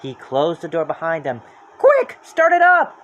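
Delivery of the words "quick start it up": loud, high, slow urgent yell; Shaggy yelling at Pops. Acted. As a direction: bark the order urgently. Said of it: "Shaggy yelled".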